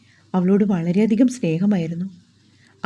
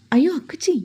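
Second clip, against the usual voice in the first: a sudden high cry of dismay; 8 semitones higher than usual. Acted. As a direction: jump up high on അയ്യോ, caught off guard. Sister realises she made her cry.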